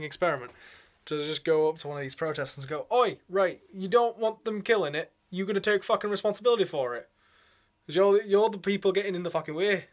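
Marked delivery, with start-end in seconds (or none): 2.9-9.9 loud, rough Geordie challenge; Geordie accent. Retold or imitated. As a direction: confront them in a Geordie accent. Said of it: "almost Geordie".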